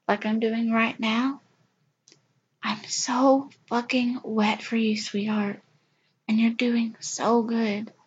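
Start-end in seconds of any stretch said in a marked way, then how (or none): 2.6-7.9 breathy intimate whisper on "I'm so fucking wet for you". Acted. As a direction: hush it close to the ear.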